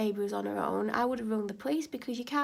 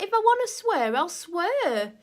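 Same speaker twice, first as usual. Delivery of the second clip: loud, much higher defiant yell; defiant shout; 8 semitones higher, 7 dB louder than usual. Retold or imitated. Yelling back she'll swear if she wants.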